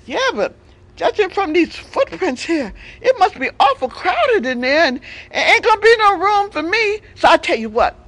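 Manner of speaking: sly fox backing out politely. Acted. Fox outwits the lion.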